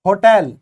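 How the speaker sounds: होटल with the h sounded, slow and clear; teacher model of होटल with a voiced h; said clearly. Shown as a demonstration. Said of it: "ये हमने बोला ऐसे".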